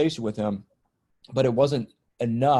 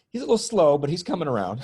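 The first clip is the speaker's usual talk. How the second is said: higher, louder teasing line breaking into a laugh; joking; 4 semitones higher, 4 dB louder than usual. Retold or imitated. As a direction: lighten the moment with a jab. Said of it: "'Cause I had to joke around".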